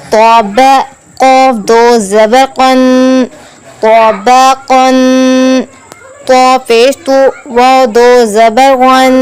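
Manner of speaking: slow, measured syllable-by-syllable recitation; Qaida spelling recitation. Shown as a demonstration. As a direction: chant each letter and vowel evenly, holding the endings. Spells out Arabic syllables for learners.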